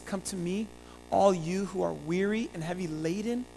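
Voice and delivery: soft, soothing scripture quote; gentle invitation. Acted. Jesus inviting the weary and heavy laden, soft and gentle. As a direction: offer it softly, as comfort to the weary.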